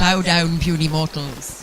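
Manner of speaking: loud, slow booming dragon. Pretend. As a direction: command the mortals like a dragon. Mock overlord proclaims after the title.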